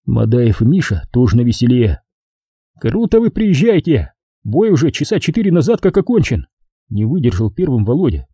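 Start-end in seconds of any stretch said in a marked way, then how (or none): 2.8-6.5 raised, reproachful soldier voice; indignant soldier. Acted. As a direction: scold the late commander. Volodya confronts drunk commander.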